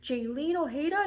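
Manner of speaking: high, sugary put-on voice of the officer; sweet-talking officer. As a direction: play the officer turning suddenly sweet and apologetic. Officer recognizes her from Instagram.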